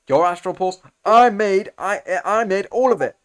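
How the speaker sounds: hammed-up outrage over the stolen invention; mock indignant retort. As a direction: bristle at the claim, voice rising. Villain indignant retort voiced.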